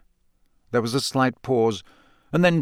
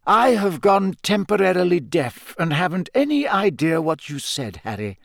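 put-on higher-pitched, measured old headmaster; genial headmaster; 6 semitones higher than usual. Headmaster asking Hagrid about the shouting, courteous. Narrator voices Dumbledore.

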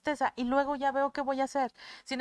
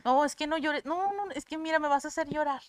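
flustered pleading; 5 semitones higher, 3 dB louder than usual. Acted. Voices listener begging crier to stop.

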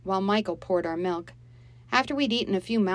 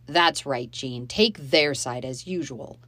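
lower, loud, sarcastic man; bitter sarcasm; 3 semitones lower, 5 dB louder than usual. Acted. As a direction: sneer at her. Dave bitter at Mom.

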